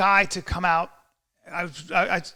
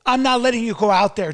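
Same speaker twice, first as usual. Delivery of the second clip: raised, louder refusal; imitating firm buddy; 4 semitones higher, 6 dB louder than usual. Buddy stopping him from fighting, loud and firm. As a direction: refuse firmly, acting out the friend. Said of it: "he goes".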